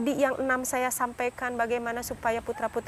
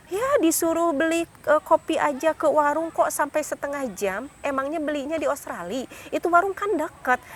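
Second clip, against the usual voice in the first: mildly raised, exasperated nagging; scolding parent; 3 semitones higher than usual. Retold or imitated. Parent scolds slow child.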